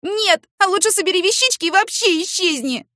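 high, loud shouting through tears; tearful fury. Acted. Woman shouting at neighbour after crying, high and loud. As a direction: yell at him from the bedroom.

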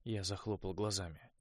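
usual speaking voice

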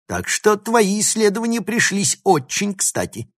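high, loud, rapid scornful speech; contemptuous tirade. A narrator's reading. Professor belittles the schoolgirl he robbed, loud and scornful. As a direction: berate and belittle, pressing on forcefully.

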